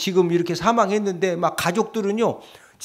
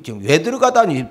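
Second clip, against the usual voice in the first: ordinary talk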